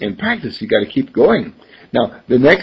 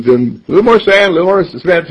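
raised, loud order for materials; bricklayer calling out; 5 semitones higher, 5 dB louder, faster than usual. Acted. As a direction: call out the list to the helper.

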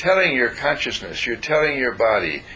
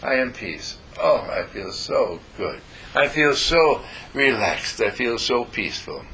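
contented relaxed sigh. Shown as a demonstration. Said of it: "stretch out your legs and say".

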